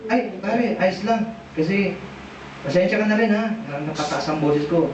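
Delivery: low-pitched, easygoing reply to a buddy; forgiving. Acted. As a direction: accept the apology and apologise back, low. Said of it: "Sa palagay mo, magagalit kayo ni siya?". (mababa at mapagpasensyang boses)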